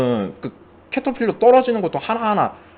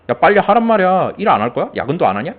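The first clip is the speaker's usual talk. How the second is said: boss scolding; 4 semitones higher than usual. Retold or imitated. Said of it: "막 이러지".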